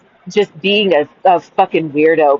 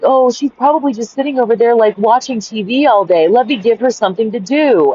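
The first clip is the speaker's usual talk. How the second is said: higher-pitched imitation of his assumption; mock dismissive; 5 semitones higher than usual. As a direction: breezily mimic him brushing her off. Mimics man's dismissive assumption.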